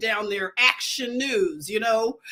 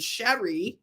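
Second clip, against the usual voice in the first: Philly accent; 3 semitones lower, 4 dB quieter than usual. Shown as a demonstration. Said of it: "That's a Philly accent".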